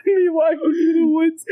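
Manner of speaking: laughing shout. Real, not acted. Joking scenario while laughing.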